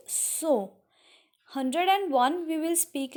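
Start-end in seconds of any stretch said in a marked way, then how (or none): 0.1-0.8 "so" drawn out slowly, as in Hindi; slow teaching model of "so"; pronounced as in Hindi. Shown as a demonstration. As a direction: say "so" like the Hindi word. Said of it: "like we are speaking in Hindi".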